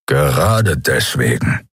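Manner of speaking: low slow growl; gruff creature growl. Acted. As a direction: growl it, dry and stubborn. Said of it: "knurrte Keru".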